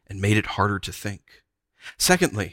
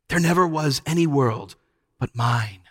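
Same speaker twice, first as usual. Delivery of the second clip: lulling witch; 3 semitones higher than usual. A narrator's reading. Witch claiming hers is the only world, crooning. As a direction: croon it with possessive certainty.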